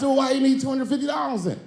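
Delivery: dad quizzing son about money; incredulous. Retold or imitated. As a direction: press him, half amused. Questioning son, laughing.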